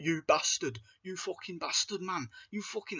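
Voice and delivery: a hint of a swearing Scouser; Scouse pig man. Reviewer mimicking the pig villain's Scouse swearing, mild Scouse accent. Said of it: "he's a Scouser".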